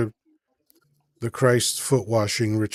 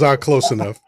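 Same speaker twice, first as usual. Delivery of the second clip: laughing; 4 dB louder than usual. Retold or imitated. God punchline, laughing.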